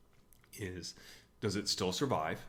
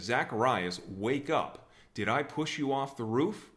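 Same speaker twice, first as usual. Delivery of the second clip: raised, demanding call to wake; mild mock yell; 3 semitones higher, 5 dB louder than usual. Jesus yelling at the dead kid to clear his name, mild mock yell. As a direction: imitate an indignant yell, held back. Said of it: "he yells at the, uh, dead kid".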